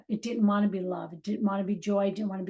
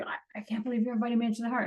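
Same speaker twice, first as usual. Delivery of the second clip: shocked; 4 dB quieter, much faster than usual. Retold or imitated. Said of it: "my mind was in such shock".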